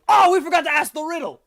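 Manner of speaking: high, loud, fast realisation; dismayed guardian. Acted. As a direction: blurt it out in sudden dismay. Lion realises too late.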